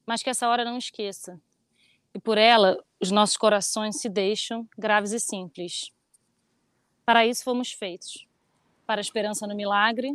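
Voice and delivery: slow, solemn poetry reading; poem recitation. Acted. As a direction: recite it gravely and gently. (recitando poema devagar)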